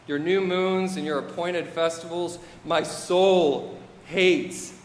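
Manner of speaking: lightly voiced divine disgust; measured build into a drawn-out, loathing finish; God. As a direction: let the last words land slowly with distaste. Reads God's rebuke in God's voice.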